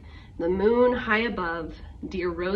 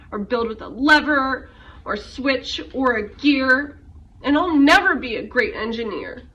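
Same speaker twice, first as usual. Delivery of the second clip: louder, fast, mortified promise; upset vow; 2 semitones higher, 6 dB louder than usual. Acted. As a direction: blurt it out in embarrassment. Rosie vows never to try again.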